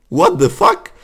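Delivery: high startled what the fuck; blurting out in sudden shock; shocked yelp. Real, not acted. Gamer startled by jukebox zombie, high shocked yelp.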